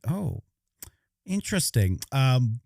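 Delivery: thoughtful musing. Retold or imitated. Acting out a pondering reply.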